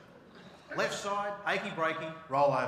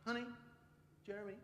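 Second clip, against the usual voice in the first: soothing new-age voice; 4 semitones higher, 10 dB quieter, faster than usual. Retold or imitated. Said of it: "she'll be like".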